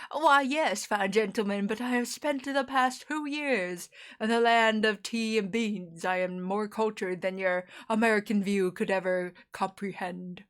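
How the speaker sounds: mock-cultured British accent; hammed-up British accent, full of pretend refinement; put-on British accent. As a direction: play a grandly superior Brit in an imagined interview. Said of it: "adopting a British accent".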